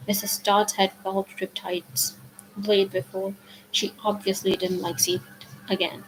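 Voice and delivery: ordinary delivery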